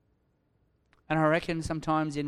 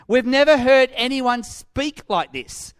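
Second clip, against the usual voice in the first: loud, high, slow amazed declaration; emphatic wonder at what was heard; 8 semitones higher, 9 dB louder than usual. Acted. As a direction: proclaim it in astonishment, stretching the words. Guards' reply retold in amazement.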